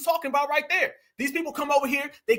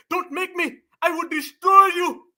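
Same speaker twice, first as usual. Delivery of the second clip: mock tough guy, higher and yelled; mocking impression; 6 semitones higher than usual. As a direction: ham up his threats in a squeaky, overblown shout. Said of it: "I promise you that's what this man said".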